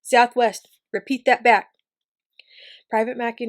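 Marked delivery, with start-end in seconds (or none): 0.0-0.7 Southwest barked loud and falling; loud order. Acted. Horace repeats as an order. 0.9-1.7 loud clipped army order; commanding shout. Acted. Officer orders the private.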